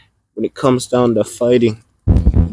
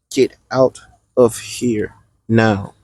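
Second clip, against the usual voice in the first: spaced-out, deliberate order, lightly acted; slow retold demand; slower than usual. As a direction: repeat the order slowly, pausing between words. Kid orders the narrator away.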